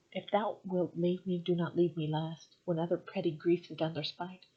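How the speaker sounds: measured recital of the sonnet; unhurried poetry reading; poem reading. Acted. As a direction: read it like verse, steady and even. Reads a Shakespeare sonnet aloud.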